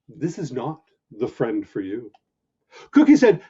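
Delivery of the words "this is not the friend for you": little inner voice. Acted. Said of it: "A little voice inside".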